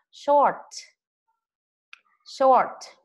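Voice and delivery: high, loud, slow model of "Short"; teacher model word. Shown as a demonstration. Teacher models a word for pupils, high and loud. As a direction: say "Short" high and loud with a falling end for the class to repeat. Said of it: "Đọc cho cô nào".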